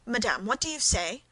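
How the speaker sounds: ordinary delivery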